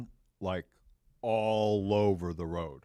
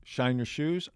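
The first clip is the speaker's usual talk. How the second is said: lightly voiced street kid, pitched up; a hint of a higher, boyish hawker; young shoeshine kid; 4 semitones higher than usual. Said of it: "this young black kid comes up to me".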